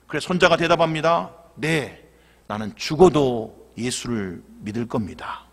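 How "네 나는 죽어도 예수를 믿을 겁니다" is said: resolute grandson. Acted. Grandson answers firmly.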